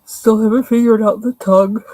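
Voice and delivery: words stretched through a big real yawn; yawning through a complaint. Real, not acted. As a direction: talk mid-yawn, loud and open-mouthed.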